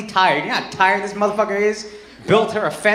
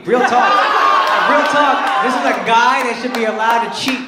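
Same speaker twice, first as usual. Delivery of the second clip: real talk shout; 4 dB louder than usual. Real, not acted. Comic rant at crowd, shouting.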